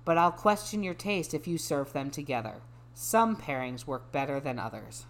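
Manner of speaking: measured, even read-aloud. Acted. Resuming a dating bio for a friend, measured reading voice. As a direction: drop back into a composed reading voice.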